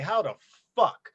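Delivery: pissed off. Retold or imitated. To the listeners, retelling his anger at a friend's pre-order, mock furious. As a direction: spit out a retold furious question. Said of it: "You know, I was pissed".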